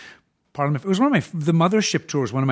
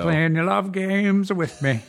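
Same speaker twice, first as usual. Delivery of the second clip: put-on slow, laughing Old Greg line; creepy sketch voice through a laugh; 4 semitones higher, slower than usual.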